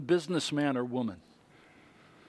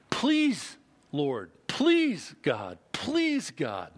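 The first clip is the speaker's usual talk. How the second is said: pleading; much slower than usual. Retold or imitated. Paul begging God to take the thorn, mild pleading. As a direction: plead like a desperate man. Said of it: "I beseeched him".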